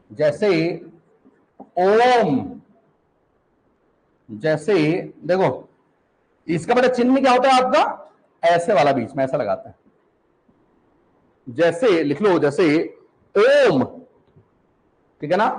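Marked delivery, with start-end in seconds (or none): 1.8-2.4 ओम with a drawn-out ओ; prolonged vowel. Shown as a demonstration. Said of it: "दो मात्रा काल से अधिक समय लगता है". 13.3-13.8 ओम with the ओ lengthened and firm; prolonged vowel. Shown as a demonstration. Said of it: "ओ को अधिक खींचने पर".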